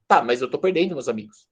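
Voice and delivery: voz mais grave e baixa, um pouco triste; a menina lamenta baixinho; tristeza leve. Retold or imitated. (a menina triste respondendo à alegria, mais grave e baixo)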